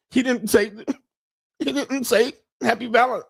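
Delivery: high-pitched mock whine, half laughing; mocking her complaint. Reactor mimics woman upset over Valentine's Day, mocking whine. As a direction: imitate a petty complaint way up high.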